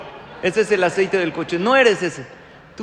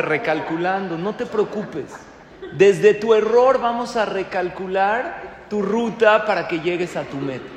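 reassuring GPS; 3 semitones higher, 3 dB louder than usual. Pretend. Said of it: "Te dice".

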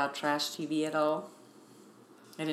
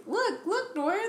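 imitating Kim; 13 semitones higher, slower than usual. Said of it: "Kim was just like".

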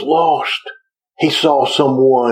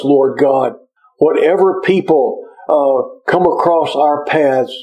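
earnest congregational prayer, slightly raised; pastor praying; 3 semitones higher than usual. Acted. Pastor leading the morning congregation in prayer, earnest and lifted. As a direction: lift the congregation's plea to God.

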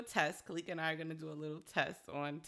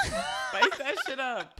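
high, loud, slow laughing call; slow laughing exclaim; 13 semitones higher, 9 dB louder, much slower than usual. Real, not acted. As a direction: stretch it out laughing. Laughing emphatic advice.

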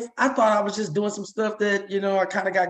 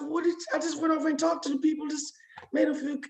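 higher, quick, bewildered self-talk; a light, puzzled thought said aloud; surprised inner voice; 11 semitones higher, 6 dB quieter than usual. Retold or imitated. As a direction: ask yourself in quick disbelief. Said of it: "I'm saying to myself".

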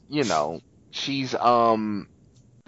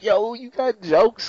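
amused God; 11 semitones higher than usual. Retold or imitated. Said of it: "He's like".

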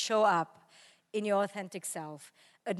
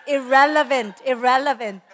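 loud, emphatic correction; mock-exasperated, punched-out repeat; insistent daughter; 3 semitones higher, 12 dB louder than usual. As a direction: hit each word hard, imitating an exasperated teen. Mimics daughter correcting her.

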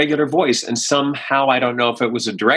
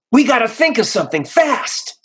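straight guy voice; 7 semitones higher than usual. Retold or imitated. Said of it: "I just had to go".

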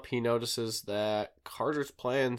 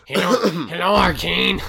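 mock stuffy greeting; 8 semitones higher, 10 dB louder than usual. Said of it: "a cold or something".

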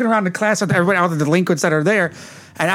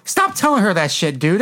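raised pitch, retold objection; mock indignant protest; 3 semitones higher than usual. Man tells cop to stop scaring Kelly, retold indignant protest.

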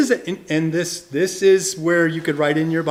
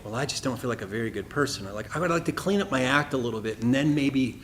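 doubtful objector; 4 semitones lower, 4 dB quieter than usual. Retold or imitated. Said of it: "some people would say".

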